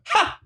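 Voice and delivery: one isolated "ha"; a lone mock laugh, then stop; single laugh. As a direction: imitate a character's one-syllable laugh. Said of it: "they only did a single laugh".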